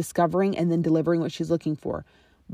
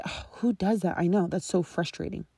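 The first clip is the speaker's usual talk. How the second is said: soft sympathetic reply; 6 dB quieter than usual. Shown as a demonstration. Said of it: "you're gonna say".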